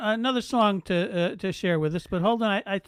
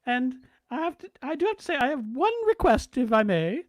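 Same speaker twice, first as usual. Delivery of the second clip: the Queen. Retold or imitated. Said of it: "for Her Majesty".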